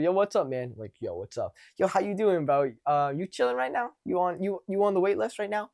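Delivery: upbeat, over-friendly bro greeting; exaggerated friendly. Shown as a demonstration. Coach demonstrates walking up to a guy, exaggerated friendly. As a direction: ham up a chummy, positive hello. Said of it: "exaggerate for the camera".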